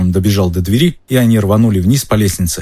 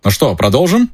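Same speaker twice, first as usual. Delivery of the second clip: enthusiastic; 5 semitones higher than usual. Acted. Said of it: "с воодушевлением".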